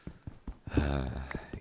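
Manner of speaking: long breathy sigh. Real, not acted. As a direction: let out a sigh after a bit. Sigh after the accent bit.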